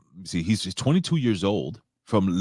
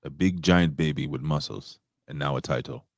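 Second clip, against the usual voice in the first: put-on Nigerian accent; 4 semitones lower than usual. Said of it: "That's my Nigerian accent".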